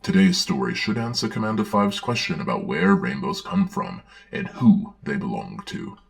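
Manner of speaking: put-on cheery children's-show host voice; playful host greeting the young listeners; story time host. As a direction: welcome the kids to story time.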